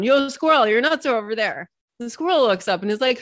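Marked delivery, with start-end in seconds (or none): 0.0-1.7 calling down. Pretend. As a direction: shout it down to the forest floor. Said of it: "you yell down".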